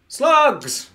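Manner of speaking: high, hammed-up shout; alarmed cry. Character announces the slug problem, high alarmed cry. Cries out the game's threat.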